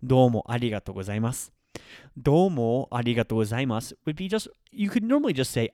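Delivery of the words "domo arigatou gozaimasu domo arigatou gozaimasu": "Domo arigatou gozaimasu" said in clear Japanese, each syllable even; teacher models "Domo arigatou gozaimasu" in careful Japanese; Japanese phrase demo. Shown as a demonstration. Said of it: "The first one would be something like".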